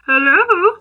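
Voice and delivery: high sing-song hello; high, put-on curious caller; calling out tentatively. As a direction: call into a closed box. Students calling into closed coffin.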